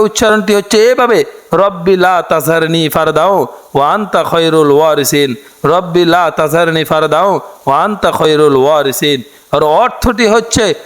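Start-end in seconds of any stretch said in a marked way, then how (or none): 1.6-9.2 dua recitation. Acted. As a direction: draw each phrase out like a prayer. Demonstrates pronunciation.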